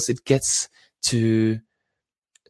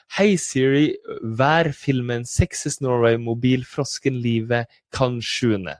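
mimicking garbled Siri input; 2 semitones higher, slower than usual. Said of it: "which doesn't make sense in any language".

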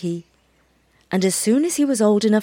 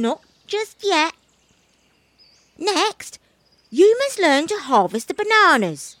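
monkey voice; 8 semitones higher than usual. A narrator's reading.

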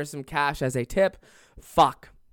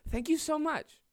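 high-pitched, overly touched thanks; mock flattered gushing; 12 semitones higher, 4 dB quieter than usual. Customer believing every stripper's compliment, mock flattered gushing. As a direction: gush up high, hamming up the gratitude.

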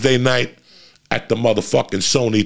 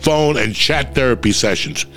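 ad read; 3 semitones higher than usual. Acted. Host reading his BetterHelp sponsor spot, upbeat ad read. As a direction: sell it like a pitchman, punchy.

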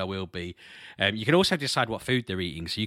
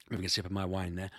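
ordinary delivery

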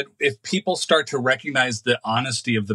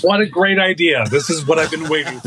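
mock delight; 3 semitones higher, 5 dB louder than usual. Playing passenger welcoming a fight.

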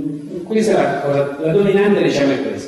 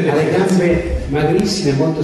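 trying not to laugh; 3 semitones higher, slower than usual. Real, not acted. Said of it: "non riesco a trattenermi da".

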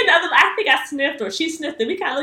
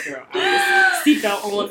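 laughing high quote; 4 dB quieter, slower than usual. Retold or imitated. Retold fearful ride, laughing.

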